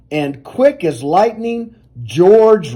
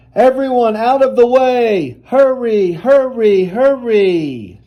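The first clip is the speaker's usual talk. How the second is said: higher, pressing call to clear the road; urgent shouting firemen; 4 semitones higher than usual. Acted. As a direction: push through the crowd in a hurry.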